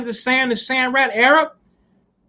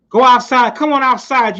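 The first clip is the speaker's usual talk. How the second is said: loud taunt; 3 semitones higher, 4 dB louder than usual. Retold or imitated. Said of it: "taunt Sonny Liston and say".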